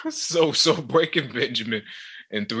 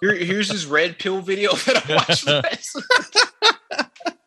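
slow, higher laughing bro voice; mock bro voice; 6 semitones higher, slower than usual. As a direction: drawl it like a smug bro.

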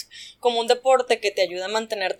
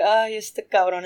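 exasperated; slower than usual. Retold or imitated. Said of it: "yo me desesperé".

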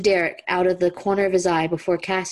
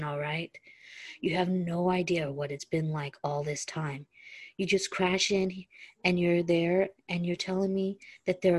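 lightly voiced Stiles, softer and tired; hint of a weary Stiles; 5 dB quieter than usual. Reader voicing Stiles pleading with Derek, softly tired. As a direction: murmur it like a worn-out loner. Reading Stiles's lines aloud.

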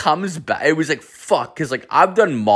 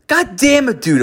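sudden very high mock groan; high, exasperated outburst; exasperated exclamation. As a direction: throw it up high in disbelief. Shocked reaction to high coworker.

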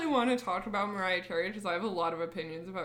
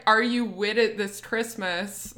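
put-on AAVE accent; slower than usual. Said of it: "and then she's like".

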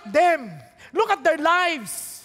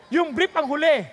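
mocking shout. Real, not acted. Mocking punchline to congregation.

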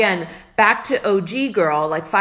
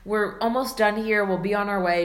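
exasperated; 3 semitones higher than usual. Retold or imitated. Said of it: "I remember reacting kind of like".

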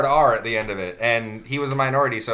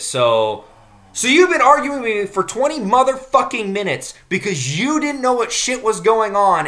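mock outraged rant; 5 semitones higher, 4 dB louder than usual. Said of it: "he goes".

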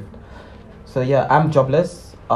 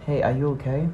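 gentle check-in; 6 dB quieter, faster than usual. Shown as a demonstration. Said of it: "maybe just be like".

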